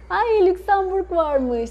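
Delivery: high, slow delighted welcome; light up at the news; delighted surprise. Real, not acted. Delighted at viewer from Luxembourg.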